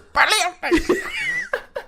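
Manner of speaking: high squealing laugh imitating her; imitating a woman bursting into high laughter. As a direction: let out her sudden high cackle. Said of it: "she just bursts out this".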